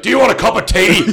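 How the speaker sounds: high, loud mock-menacing offer while laughing; laughing imitation. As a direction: play the polite tough guy, giggling. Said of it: "It's that accent where they could literally be like".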